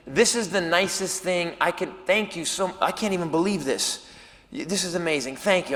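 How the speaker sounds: soft, overwhelmed gratitude; acted hushed gratitude; humbled thanks. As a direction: thank her quietly, hardly believing it.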